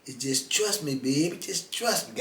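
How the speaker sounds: put-on soft, coaxing New Orleans "baby"; lightly voiced New Orleans sweet-talk; New Orleans accent. Con man coaxes his mark in a New Orleans accent. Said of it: "Got that little New Orleans accent".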